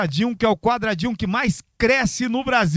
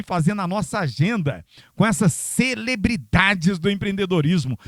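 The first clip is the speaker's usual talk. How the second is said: ordinary delivery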